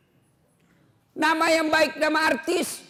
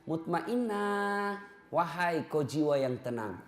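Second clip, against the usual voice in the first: gentle calling; 2 semitones lower, 5 dB quieter, slower than usual. Acted. People calling her name.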